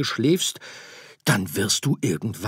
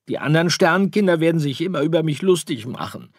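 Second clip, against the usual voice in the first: jammernd; 12 semitones higher, 12 dB louder, faster than usual. Acted. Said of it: "jammerte Sirius".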